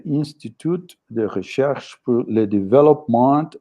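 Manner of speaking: halting French words in English accent; French said with a clumsy English accent; broken French. Real, not acted. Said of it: "Sorry for my bad French pronunciation".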